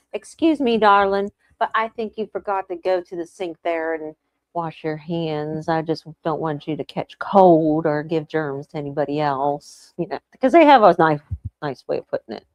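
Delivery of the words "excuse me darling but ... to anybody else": sweet, slow Southern drawl; polite Southern belle accent. Retold or imitated. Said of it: "a wonderful Southern drawl".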